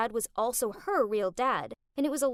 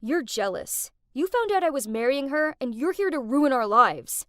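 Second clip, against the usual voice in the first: angry; 5 dB louder than usual. Acted. Andrew accusing her.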